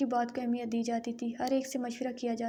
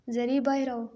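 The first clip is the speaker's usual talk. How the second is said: mild mock shout calling her out; angry shout; 4 dB louder than usual. Grandmother summoning Zari in anger, a lightly voiced shout. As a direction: call the girl out sharply, half in anger. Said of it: "دادی اماں غصے سے چلائی تھی".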